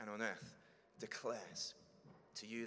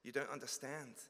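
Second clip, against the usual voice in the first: higher, louder pleading believer; anxious confession; 5 semitones higher, 6 dB louder than usual. Acted. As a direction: plead nervously, afraid of rejection. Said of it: "cautiously approaching Jesus".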